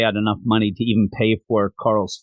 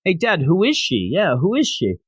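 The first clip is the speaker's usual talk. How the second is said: lightly voiced curious children, higher and sing-song; little kids; 4 semitones higher than usual. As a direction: imitate two kids asking their dad. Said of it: "a little boy and a little girl that say".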